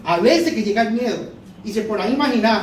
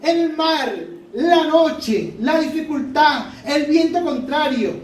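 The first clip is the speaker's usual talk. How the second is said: joyful marvel; 4 semitones higher than usual. Real, not acted. Preacher marvelling at the scene.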